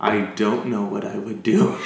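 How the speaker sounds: low, understated deadpan quote; deadpan imitation. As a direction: imitate her deadpan, dropping the pitch. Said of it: "her face is all deadpan".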